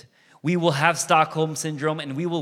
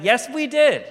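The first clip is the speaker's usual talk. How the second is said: smug people; 11 semitones higher, 6 dB louder than usual. Retold or imitated. Israelites answer Moses, voiced.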